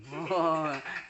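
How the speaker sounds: short "oh" of laughter; amused laugh. Real, not acted. Teacher jokes with pupils about "walking walking", amused laugh. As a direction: laugh briefly at the doubled word.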